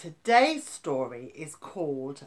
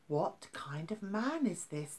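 anxious murmur; 2 semitones higher, 6 dB quieter than usual. Acted. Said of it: "asked themselves anxiously".

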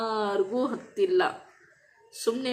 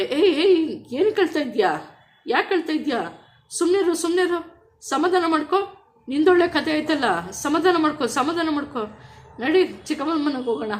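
higher, louder voice of a mother hushing her crying daughter; mother consoling; 7 semitones higher, 5 dB louder than usual. Retold or imitated. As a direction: call out like a worried mom soothing her child. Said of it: "ನಮ್ಮಮ್ಮ ನನ್ನ ನೋಡ್ಬಿಟ್ರೆ". (ಮಗಳನ್ನು ಸಮಾಧಾನಿಸುವ ಅಮ್ಮನ ಎತ್ತರದ ಜೋರು ಧ್ವನಿ)

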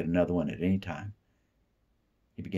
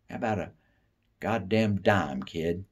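tough guy; 2 semitones higher, slower than usual. Acted. Imagined tough-guy line.

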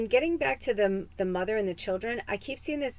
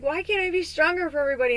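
pleading lament; 7 semitones higher, 6 dB louder, faster than usual. Retold or imitated. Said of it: "'Cause I just been like".

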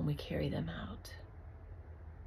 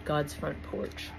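slow spoken title; slower than usual. Shown as a demonstration. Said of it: "this was actually a dream I had".

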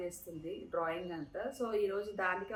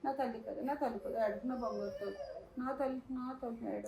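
softer, coaxing comfort; tender soothing; 5 dB quieter than usual. Real, not acted. Mother comforting her crying daughter, tender soothing.

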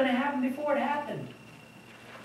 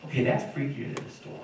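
awed whisper; 7 semitones lower, 7 dB quieter than usual. Retold or imitated. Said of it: "And they're like".

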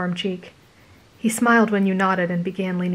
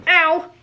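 sharp ow; 10 semitones higher, 4 dB louder than usual. A narrator's reading. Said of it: "you snapped".

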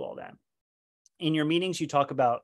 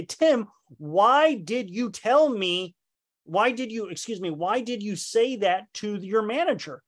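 slow, raised and higher, an indignant demand; a coworker confronting Tim, slow and raised; accusing coworker; 5 semitones higher than usual. Retold or imitated. Coworker confronting Tim for going to manager, indignant and slow.

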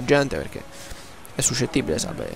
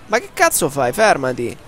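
explosive italian cursing; 3 semitones higher than usual. Real, not acted. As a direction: shout at the screen. Gamer yelling at game.

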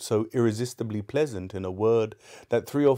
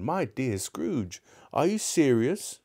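slow then higher, disbelieving; can hardly believe the gift; astonished gentleman; 4 semitones higher, slower than usual. Acted.

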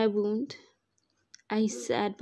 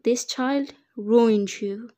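slow taunting villain; 5 dB louder, slower than usual. Acted.

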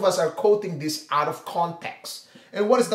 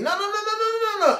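rapid no's; much faster than usual. Real, not acted. Rejecting a wrong view.

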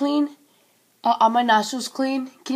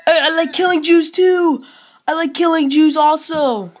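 trolling shout; 3 semitones higher, 6 dB louder than usual. Pretend. Provocative troll shout at stranger.

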